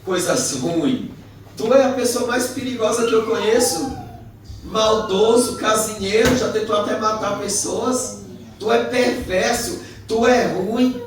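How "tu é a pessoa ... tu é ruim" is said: high, loud list of faults; heated accusation. Retold or imitated. Preacher reminding friend of past wrongs, accusing. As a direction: hit each insult hard. Acted quarrel, listing his faults.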